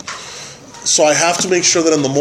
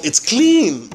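raised, insistent retort; mock argument with wife; retold exasperated protest; 6 semitones higher than usual. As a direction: protest it higher, with a push on CLEAN. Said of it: "I hadn't yelled at her".

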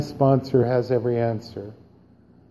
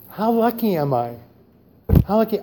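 grateful; 4 semitones higher, 3 dB quieter than usual. Real, not acted. Grateful reflection.

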